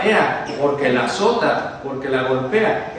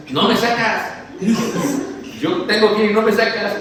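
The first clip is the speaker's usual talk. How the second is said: whiny chihuahua; 6 semitones higher than usual. Pretend. Preacher imagining his chihuahua complaining he's never walked, whiny. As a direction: sulk like a neglected chihuahua. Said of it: "qué me diría mi perrito de allá que es un chihuahua".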